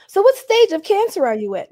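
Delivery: put-on high, prying old lady question; nosy grandmother. Grandmother at dinner asking bluntly in a high voice.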